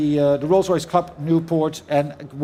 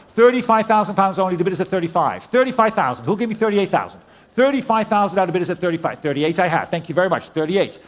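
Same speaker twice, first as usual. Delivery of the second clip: brisk auctioneer calling out bids. Real, not acted. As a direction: rattle off the bids like a saleroom auctioneer.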